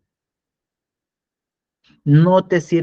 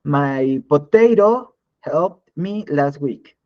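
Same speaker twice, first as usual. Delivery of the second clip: slow, word-by-word machine reading; slow, deadpan machine-like literal translation; mock translator output; much slower than usual. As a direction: read it out like a clumsy old translator. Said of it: "¿qué creen que decía el traductor?".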